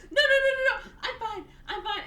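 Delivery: high-pitched hammed-up refusal; mock frantic protest. Patient on stretcher refuses the gown, mock frantic protest. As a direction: wave off help in a high, imitated fluster.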